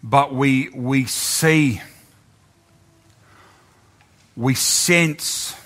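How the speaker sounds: slow, earnest prayer voice. Real, not acted. Preacher leads the congregation in prayer. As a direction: pray slowly over the people.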